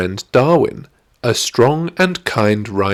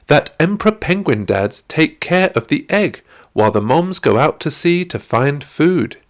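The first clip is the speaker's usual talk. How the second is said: put-on lightly raised, keen girl's voice; eager young girl explaining; 6 semitones higher than usual. Zoe telling Darwin about penguin dads, eager girl voice. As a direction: share a favourite fact with a friend.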